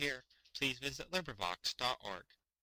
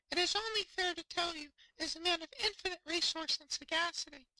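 very high, small squeaky fish voice; tiny fish voice. Acted. Fish voice continues.

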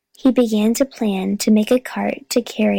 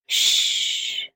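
soft, voiceless shush; long, soft "shh"; hushing; 5 dB quieter than usual. A narrator's reading. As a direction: hush the dog quietly. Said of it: "said Henry to the dog".

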